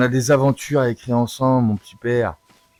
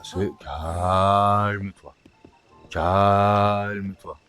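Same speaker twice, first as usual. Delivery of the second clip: slow soothing; 2 semitones lower, much slower than usual. Acted. Calming the horse.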